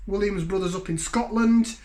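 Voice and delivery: a light, admittedly bad Scottish accent. Beer reviewer hamming a Scottish brewery's home, bad Scottish accent. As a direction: have a go at a Scottish accent and know it's not great. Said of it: "Apologies for the accent".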